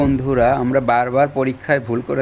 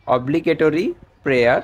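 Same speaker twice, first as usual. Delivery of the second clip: very slow, every syllable of "obligatory prayer" stretched out; slow dictation; much slower than usual. Shown as a demonstration. Teacher giving students an English term, drawn out slowly. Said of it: "teacher dictating vocabulary".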